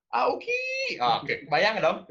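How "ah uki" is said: very high put-on mother's cry; shrill mother voice. Parent hearing a plate break, crying out very high. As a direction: squeak it like a flustered mum.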